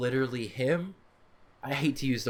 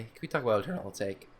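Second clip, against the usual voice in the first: voice crack. Real, not acted. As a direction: voice cracks mid-question. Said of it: "Ooh, sick voice crack".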